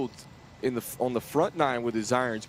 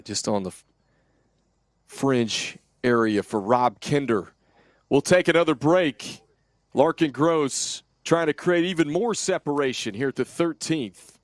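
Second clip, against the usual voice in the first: golf commentator; 2 semitones higher, 4 dB louder than usual. Real, not acted. Excited live golf call.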